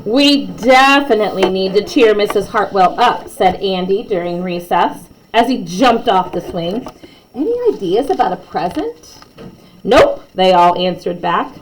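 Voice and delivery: lively read-aloud storytelling; story narration. A narrator's reading. Narrator reading a class story to kids, lively. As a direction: read it like a bedtime picture book.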